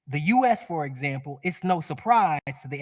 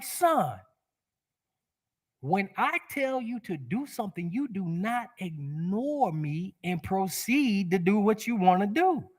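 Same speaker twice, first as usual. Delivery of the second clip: stern angry father; 4 semitones higher, 4 dB quieter than usual. Retold or imitated. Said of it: "pain body erupted like a volcano".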